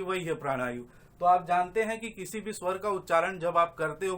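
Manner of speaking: ordinary delivery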